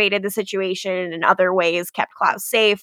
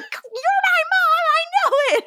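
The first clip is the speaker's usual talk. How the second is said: desperate high plea. Retold or imitated. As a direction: beg her to be his mom. Klaus shaking her desperately.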